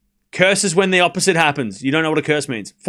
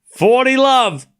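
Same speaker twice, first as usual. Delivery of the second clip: slow drawn-out call; 6 semitones higher, 4 dB louder, much slower than usual. Shown as a demonstration. Streamer repeating the score, slow and drawn out. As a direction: stretch forty love slowly.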